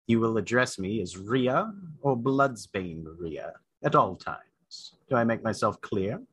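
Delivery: low, slow, stern commanding voice; drill sergeant. Acted. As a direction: bark orders like a drill sergeant. GM character commands Sal sternly.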